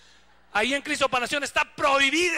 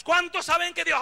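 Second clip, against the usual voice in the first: mock hype preacher; 5 semitones higher, 5 dB louder than usual.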